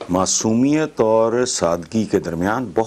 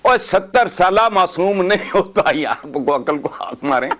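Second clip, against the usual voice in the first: laughing retort; 5 semitones higher than usual. Real, not acted.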